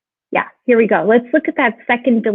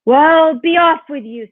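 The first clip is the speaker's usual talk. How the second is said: higher, lightly voiced troll send-off; troll dismissal; 6 semitones higher, 4 dB louder than usual. A narrator's reading. Troll sending the little goat away, brusque. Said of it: "said the troll".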